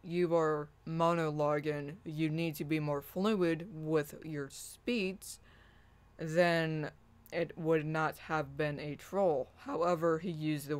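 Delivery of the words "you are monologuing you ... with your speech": slow and measured. Shown as a demonstration. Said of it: "if he said".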